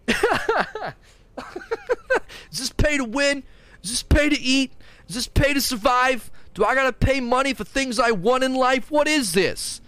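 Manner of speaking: high-pitched, whiny indignation; mock outraged customer. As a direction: wail absurd accusations in hammed-up outrage. Resumes outraged customer bit.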